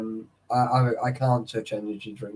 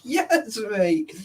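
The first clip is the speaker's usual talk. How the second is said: laughing; 8 semitones higher than usual. Real, not acted. Laughing at a lap dance story.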